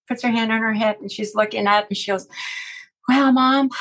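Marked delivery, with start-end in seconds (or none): 3.1-3.7 higher, louder, drawn-up address to Mom; retold emphatic address. Daughter in a dream answers her mom, emphatic. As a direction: imitate a daughter pointedly addressing her mother.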